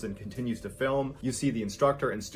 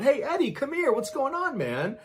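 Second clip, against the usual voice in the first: high, raised holler to a buddy; yelling out; 3 dB louder than usual. A narrator's reading. Student waving from the hall's end, yelling out. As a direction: call him over with a loud, high yell. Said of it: "waving at him and yelling out".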